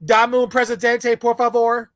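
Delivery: stiff put-on Spanish; mock Spanish order. Mocking how wannabes order, stiff Spanish. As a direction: order it like a tourist. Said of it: "That's how they talk".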